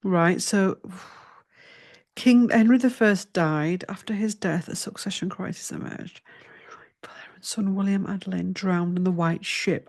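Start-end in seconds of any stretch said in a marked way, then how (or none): 2.1-9.9 reads the text under her breath; murmuring the history notes to herself; whispered reading. Acted.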